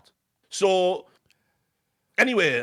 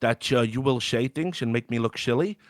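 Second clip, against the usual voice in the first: mock Dutch accent; loosely put-on Dutch accent; 2 semitones lower than usual. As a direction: imitate the caller as a Dutchman. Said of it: "I don't know why he's Dutch".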